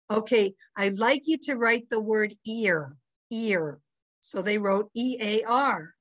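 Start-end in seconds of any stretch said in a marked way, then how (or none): 0.1-3.8 lightly imitated Brooklyn teacher; Brooklyn accent. Teacher giving a spelling test, light Brooklyn accent. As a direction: dictate in a mild Brooklyn accent, "ear" for air. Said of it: "that was the Brooklyn accent".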